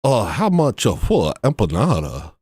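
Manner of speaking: halting broken English in a put-on Mexican accent; exaggerated Mexican-accented English; mock Mexican accent. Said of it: "speaking broken English to them".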